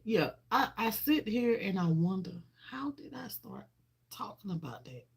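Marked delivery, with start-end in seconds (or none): 2.7-5.1 unvoiced wondering whisper; hushed, baffled self-question. Real, not acted. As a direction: whisper it to yourself, puzzled. Wondering aloud in disbelief.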